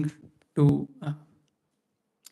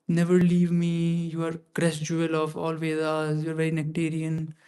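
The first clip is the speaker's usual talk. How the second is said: slow, softer pleading to a beloved book; tender prayer; 5 dB quieter than usual. Retold or imitated. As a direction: plead gently and slowly, like to a dear friend. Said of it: "Why he's talking like that".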